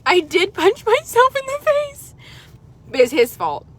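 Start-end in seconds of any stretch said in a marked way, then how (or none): 0.1-2.1 laughing while admitting it; laughing admission. Real, not acted. Owning up to the viewers about the injury, laughing. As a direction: give it up through a laugh.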